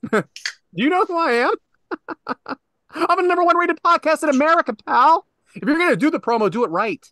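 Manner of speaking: lightly voiced wrestling promo; hint of a promo trash talk. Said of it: "he does a complete Macho Man promo".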